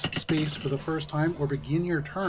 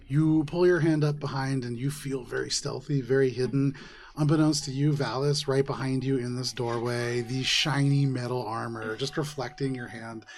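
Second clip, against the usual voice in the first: low, hushed scene setting; game master narration; 3 semitones lower than usual. Acted. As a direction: draw the players into the ambush. GM sets a tense scene.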